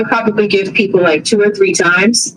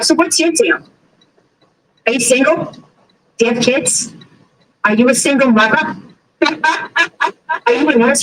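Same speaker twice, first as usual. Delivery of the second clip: nosy questions in a higher imitated voice; prying neighbor; 4 semitones higher than usual. Narrator imitating neighbor grilling her, higher.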